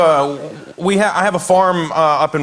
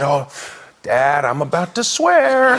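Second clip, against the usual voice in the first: put-on slow, drawn-out words of an upset little boy; mock tearful warning. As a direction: imitate a kid holding back tears. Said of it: "He starts to cry".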